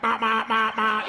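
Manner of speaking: high, repeated stammer syllables; mocking stutter. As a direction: make fun with exaggerated stuttering. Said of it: "I'm saying horrible stuff".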